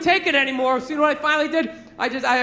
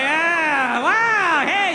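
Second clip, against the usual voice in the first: feigned wonder, pitched up; acting impressed; 3 semitones higher, much slower than usual. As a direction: pretend a kid has impressed you. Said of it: "like you're impressed".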